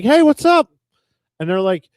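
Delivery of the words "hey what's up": much higher, louder, overly bright hello; fake cheery phone greeting. Answering spam call on speakerphone, fake cheery greeting. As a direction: greet the spam caller like an old friend. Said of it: "and I'm like".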